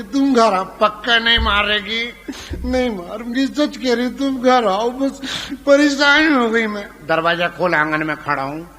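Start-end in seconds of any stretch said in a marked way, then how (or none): 2.6-6.9 higher mock wife, fed up; wife swears she won't hit him; wife's promise. Wife voiced promising not to hit.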